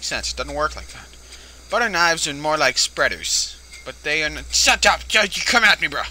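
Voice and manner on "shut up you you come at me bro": mock tough yell. Real, not acted. Yelling at game monster.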